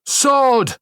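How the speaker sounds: commanding shout, pitched high; shouted cry. A narrator's reading. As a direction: call the sword to hand. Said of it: "I cried".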